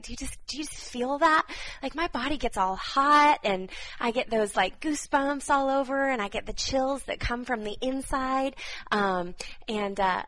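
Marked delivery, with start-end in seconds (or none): 0.0-8.6 fired up. Real, not acted. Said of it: "I just get so fired up".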